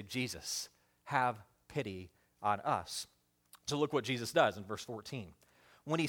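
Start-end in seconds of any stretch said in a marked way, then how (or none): 0.0-3.1 low, very soft, slow plea; subdued plea. Acted. Outcast lepers begging Jesus for pity, hushed plea. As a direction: plead quietly, almost spent.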